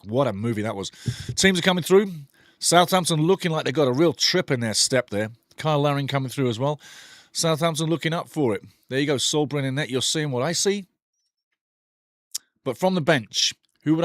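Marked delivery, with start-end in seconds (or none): none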